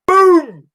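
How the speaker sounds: very high, loud shouted boom; loud crash noise. Retold or imitated. Imitating the lorry hitting the Mini, loud boom. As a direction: blast out the impact like an explosion.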